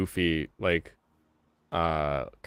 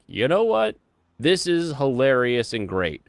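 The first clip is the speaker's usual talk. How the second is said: delighted; 5 semitones higher, 3 dB louder than usual. Retold or imitated. People's reaction, acted quote.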